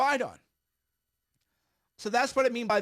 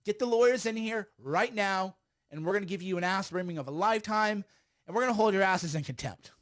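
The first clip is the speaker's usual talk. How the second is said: mock outrage; 2 semitones higher than usual. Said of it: "Authentic outrage is".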